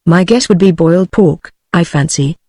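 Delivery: lightly voiced soft English accent; a hint of a cool, soft-spoken Englishman. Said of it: "soft and husky voice, with a decidedly English accent".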